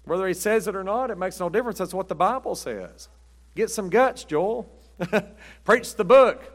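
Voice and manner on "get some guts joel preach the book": bold, rising rebuke with a laugh; loud, fired-up preacher's dare; loud challenge. Real, not acted. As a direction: raise your voice and call him out. Preacher challenges Osteen loudly.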